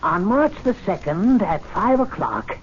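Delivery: lightly declaiming the notice; a touch of grand announcement; reading the notice aloud. Acted. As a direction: proclaim it with slow relish. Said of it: "Listen to this".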